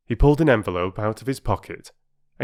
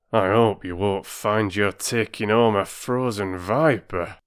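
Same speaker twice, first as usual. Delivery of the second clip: doubtful. Acted. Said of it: "said the station master doubtfully".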